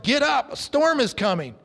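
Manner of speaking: urgent, loud alarm; retold yell. Farmer shaking his hired hand awake, urgent loud yell. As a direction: yell it like waking a sleeper in a storm. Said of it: "and yelled".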